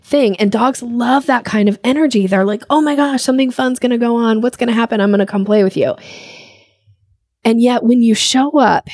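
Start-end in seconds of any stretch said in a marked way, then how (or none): 2.7-6.0 higher, eager voice of a happy dog; the dog can't wait to play; excited dog. Retold or imitated. Dog's excited thoughts voiced.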